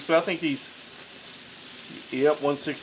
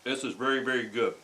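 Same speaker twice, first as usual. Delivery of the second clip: mouth full; 3 semitones lower, 5 dB quieter than usual. Real, not acted. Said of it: "talking with my mouth full".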